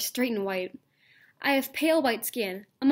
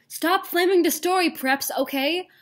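annoyed scolding; 6 semitones higher, 5 dB louder than usual. Acted. Author scolding critics.

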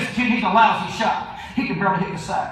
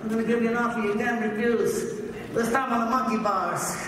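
put-on young Brando; faster than usual. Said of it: "I looked like a young Marlon Brando".

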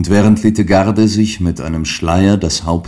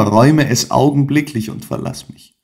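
frantic plea; 7 semitones higher than usual. A narrator's reading. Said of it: "rief jene".

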